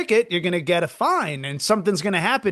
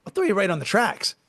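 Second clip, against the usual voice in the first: a hint of a fed-up tough guard, higher; 4 semitones higher than usual. Guard telling off the nail polish woman, mock tough. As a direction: tear into her like a rough bouncer. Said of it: "I think we need people to be like".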